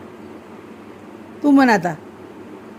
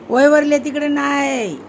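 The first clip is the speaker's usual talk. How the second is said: raised, higher-pitched instruction; insistent correction; 6 semitones higher than usual. Real, not acted. Mother telling child to write in notebook, insistent.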